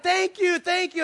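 high, loud, effusive gratitude; mock overjoyed thanks; gushing thanks. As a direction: imitate someone thanking you far too much. Grateful man gushing thanks again.

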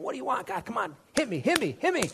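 high, urgent plea; rising, insistent prayer; pleading to God. Retold or imitated. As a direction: beg God to strike now.

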